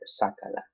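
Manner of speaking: sácala, weight on SÁ; stress on first A. Shown as a demonstration. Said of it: "That A right there".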